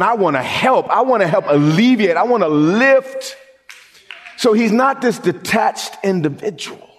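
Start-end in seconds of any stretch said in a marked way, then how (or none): 0.0-3.4 pleading. Acted. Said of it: "He's up there crying, saying".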